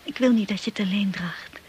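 tender whisper. Acted. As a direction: whisper it like comfort. Wife comforts husband softly.

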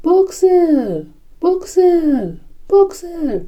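high, calling scream of a name; desperate cry. A narrator's reading. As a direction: call after someone being taken away. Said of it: "țipă ea". (strigăt disperat, pe ton înalt)

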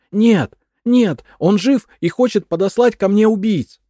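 high, loud frantic accusation; shrieking crazed widow; paranoid madwoman. A narrator's reading. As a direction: cry it out in paranoid fear.

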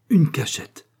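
wife repeats her find, still triumphant; repeated triumph. Acted. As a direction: say it again with rising triumph. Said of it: "répéta Mrs. Manglas".

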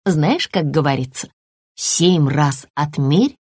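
put-on a mother soothing her scared child; calm mother lizard, reassuring.

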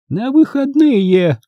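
high, drawn-out stern retort; high-pitched, unyielding old woman; Grandma Bone, curt. A narrator's reading. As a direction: cut him off in a high voice. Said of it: "отрезала бабушка Бон".

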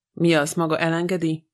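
usual speaking voice

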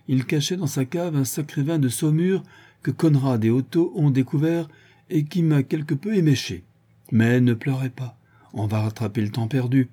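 tipsy Vorski. Acted. Vorski stumbles in to his captive, lightly tipsy and mocking. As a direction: lightly play him tipsy and mock-polite. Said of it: "la marche mal assurée".

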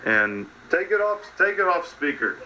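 bossy, barking orders; diva. Real, not acted. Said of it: "I'm kinda being an overall diva here".

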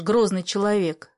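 ordinary delivery, nothing marked

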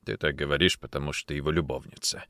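low, bitter accusation. A narrator's reading. Officer accuses woman of being suspect's lover, bitter. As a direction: throw it at her with bitterness. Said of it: "бросил Никитин с горечью".

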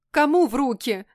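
high, loud frightened shriek. A narrator's reading. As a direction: squeal it out in sudden panic. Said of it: "взвизгнула я".

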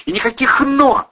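high, loud shout. A narrator's reading. Ira cuts off Protasov's protest, loud high shout. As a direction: shut him up with a yell. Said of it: "закричала Ирина".

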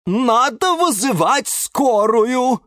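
slow, high-pitched wail; keen it out in alarm; Розалия Львовна wailing. A narrator's reading. Plant wanting an ambulance for the cactus, wailing. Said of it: "голосила Розалия Львовна".

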